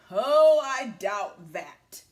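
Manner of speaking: loud oh, then slow smug doubt; scoffing wolf. Acted. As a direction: sneer it out slowly. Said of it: "said the big bad wolf".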